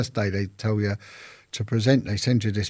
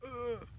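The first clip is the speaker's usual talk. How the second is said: voiceless croak; 15 dB quieter than usual. Retold or imitated. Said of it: "but I couldn't talk".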